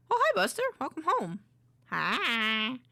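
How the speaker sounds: high sweet greeting to a pet. Real, not acted. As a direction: coo at your dog.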